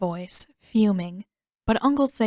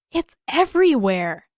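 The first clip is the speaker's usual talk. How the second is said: put-on much higher, fast, bubbling boy's voice; excited young Aang; 5 semitones higher, 7 dB louder than usual. Aang gushing to Katara about the koi, bubbly high boy. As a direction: tumble the words out, thrilled.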